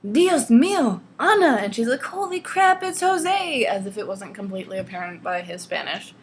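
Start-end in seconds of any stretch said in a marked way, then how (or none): 0.1-1.6 loud, high mock wail; hammed-up Spanish outburst, swooping high; freaking out. Jose calling Ana on the phone, freaking out. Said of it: "completely freaking out and whining". 2.0-3.6 loud, high mock surprise; hammed-up astonishment at the caller; shocked exclamation. Anastasia realizing who is on the phone, shocked exclamation. Ana's acted reaction to the caller.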